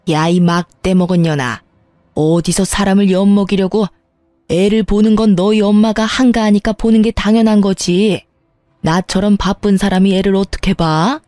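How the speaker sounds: harsh, contemptuous scolding mother-in-law voice; scornful mother-in-law. Acted. Mother-in-law berating her daughter-in-law over the phone, scornful scolding.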